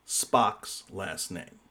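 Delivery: slow, drawn-out announcer read; slow dramatic reveal. Shown as a demonstration. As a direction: draw out every word for suspense. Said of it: "quiz question announced dramatically".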